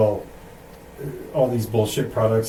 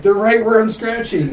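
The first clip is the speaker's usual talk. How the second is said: much higher, louder mock-scared voice; spooked ghost hunter; 12 semitones higher, 7 dB louder than usual. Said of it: "it was like".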